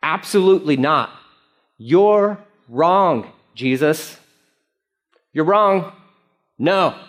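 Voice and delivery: emphatic acted contradiction in separated phrases; insistent, stop-and-start denial; emphatic refusal. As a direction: contradict firmly, pausing after each phrase. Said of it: "An emphatic no".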